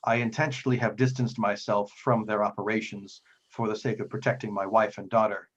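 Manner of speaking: lightly voiced cautious priest; deliberate, formal warning broken by long pauses; guarded devout priest.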